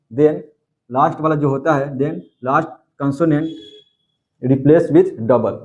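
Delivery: slow, word-by-word dictation pace; teacher dictating a grammar rule very slowly. Shown as a demonstration. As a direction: spell the rule out slowly for students to copy. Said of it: "teacher dictating a rule".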